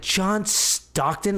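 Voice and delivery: slow, drawn-out disbelieving "John Stockton?"; incredulous question. Retold or imitated. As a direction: ask it slowly, in disbelief. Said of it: "And they're like".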